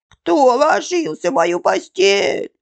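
high, loud little-bear squeal; thin squeaky voice. A narrator's reading. Bear cub finds his bed used, thin high squeak. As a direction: pipe it up like a tiny cub. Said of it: "запищал тонким голосом".

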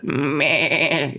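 quavering imitated bleat; sheep bleat. Shown as a demonstration. Teacher showing students what a sheep is, imitated bleat. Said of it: "Sheep, it's like".

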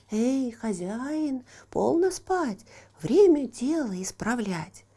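slow high cheerful call; little horse waking master. Acted. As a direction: wake him up, urging. Horse wakes Ivan. (конёк будит хозяина)

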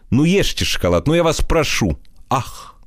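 high, gushing admirer's voice; a lightly voiced rapturous flatterer. Flatterer offers chocolate.

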